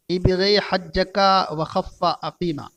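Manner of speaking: "इबग़ी हज्जका व खफ़्फ़ा अक़ीमा" recited slowly, word by word; slow recitation. Shown as a demonstration. Teacher reciting a phrase for students to memorize, slow and deliberate. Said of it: "अरबी का एक sentence है".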